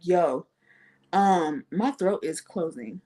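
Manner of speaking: calm as day. Retold or imitated. Telling a friend her throat is closing, calm as day. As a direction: say it evenly, no alarm at all. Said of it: "I said it just as calm as day".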